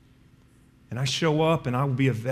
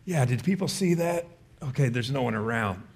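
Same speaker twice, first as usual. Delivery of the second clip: mock sneaky false self. False self checking for witnesses.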